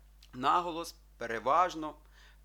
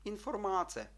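інформація higher, all syllables even; 7 semitones higher than usual. Shown as a demonstration. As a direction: read інформація evenly, without squeezing any vowel. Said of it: "Рівненько". (рівненько, не стискаючи голосні: інформація)

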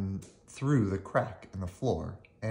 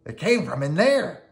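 higher, louder cartoon duck voice; Donald's voice; 8 semitones higher, 7 dB louder than usual. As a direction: point it out in a raised duck voice. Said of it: "said Donald".

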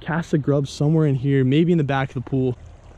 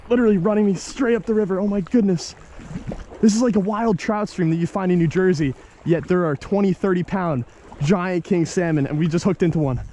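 excited; 5 semitones higher than usual. Real, not acted. Fighting fish, excited.

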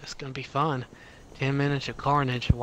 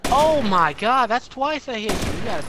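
excited gloating; 10 semitones higher, 7 dB louder than usual. Real, not acted. Gloating after landing hits.

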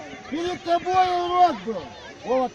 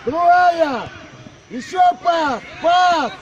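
yelling from the sidelines; much slower than usual. Real, not acted. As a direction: demand the pass at full voice. Demanding the pass mid-game.

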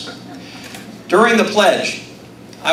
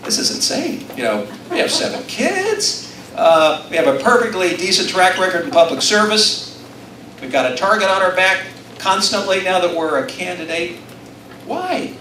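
whiny complaint in bed at six in the morning; retelling a complaint to his wife, mock whine; mock exasperated self; 4 semitones higher than usual. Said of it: "and I say".

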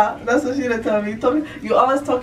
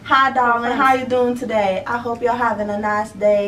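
a light Southern charm; lightly done Southern accent. Pretend. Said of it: "a southern accent".

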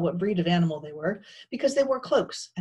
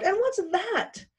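very high, slow frightened question; sobbed question; 14 semitones higher, slower than usual. A narrator's reading. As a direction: ask in high, fearful dismay. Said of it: "Pearl sobbed".

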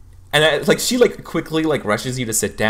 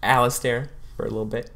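flustered counselor; 4 semitones higher than usual. Acted. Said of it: "she's like".

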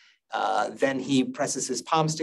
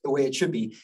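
lightly voiced, higher-pitched objection; mild mock puzzlement, pitched up; puzzled students counting; 5 semitones higher than usual. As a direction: play a student whose count won't add up. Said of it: "some of you are looking at your counting".

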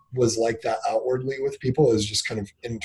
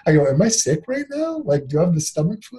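much higher-pitched mock distress; retold tearful bewilderment; 7 semitones higher than usual. Husband retelling his breakdown to an interviewer, bewildered mock distress. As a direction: imitate yourself overwhelmed and alarmed by crying. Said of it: "I was, like, sobbing".

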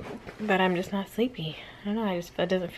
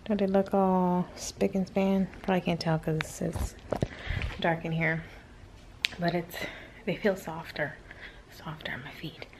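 whispering; 2 semitones lower, 5 dB quieter than usual. Real, not acted. Talking at 2am while others sleep.

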